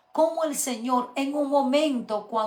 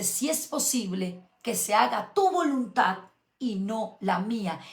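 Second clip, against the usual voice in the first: calm surrender. Retold or imitated. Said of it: "en esa misma oración cambia y dice".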